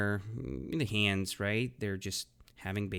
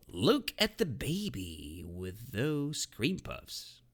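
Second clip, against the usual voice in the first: quoted phrase; 2 semitones higher, slower than usual. Shown as a demonstration. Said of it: "it's called".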